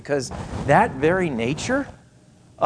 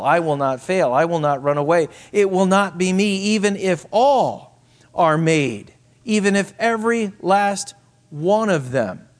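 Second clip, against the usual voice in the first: rising vow; 3 semitones higher, 4 dB louder than usual. Acted.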